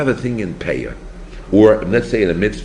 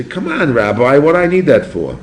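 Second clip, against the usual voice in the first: raised, higher-pitched challenge; protesting student; 7 semitones higher, 7 dB louder than usual. Acted. A student challenges the rabbi, protesting loudly. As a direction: argue back loudly, pitch up.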